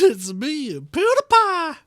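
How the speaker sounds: high, hammed-up fake German accent; goofy mock German accent voice; weird German accent. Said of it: "You said that in a very weird German".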